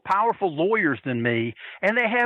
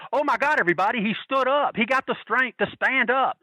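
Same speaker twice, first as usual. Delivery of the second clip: mock astonishment; 7 semitones higher than usual. Mock astonishment heckling the wrestler.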